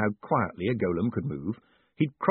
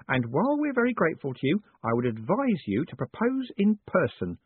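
higher-pitched, gracious lady's voice; sweetly smiling; 5 semitones higher than usual. Acted. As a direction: advise him sweetly, with a smile in the voice. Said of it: "she said, smiling sweetly".

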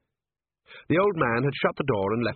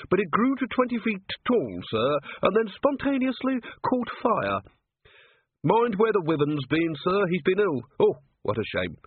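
put-on high, rustic old man's voice; chatty old yokel showing off his birds; lightly cracked old keeper voice; old zoo-keeper; 8 semitones higher than usual.

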